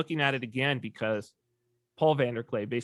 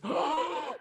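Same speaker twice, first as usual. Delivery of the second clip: surprised recognition; 13 semitones higher, 3 dB louder, much slower than usual. Retold or imitated. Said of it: "And she says, gasps".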